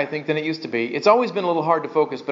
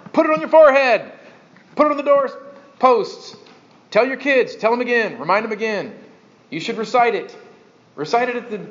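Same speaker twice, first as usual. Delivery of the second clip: raised, urgent list of orders; mock drilling the rules in, pitched up; insistent commands; 5 semitones higher than usual. Preacher voicing Old Covenant reminders to the people, insistent.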